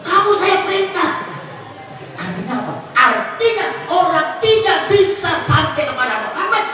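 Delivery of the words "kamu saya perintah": lightly acted high-pitched command; God commanding. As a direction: raise the pitch to give a mock divine order. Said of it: "Kata Allah".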